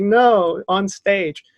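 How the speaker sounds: high-pitched, upset whine; mock tearful wail. Crying bar back correcting the bartender, mock tearful wail.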